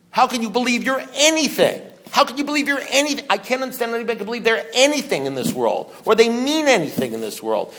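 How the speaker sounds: fervent recovery-meeting preacher; impassioned preaching. Real, not acted. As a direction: hammer out rhetorical questions. Incredulous full-force challenge.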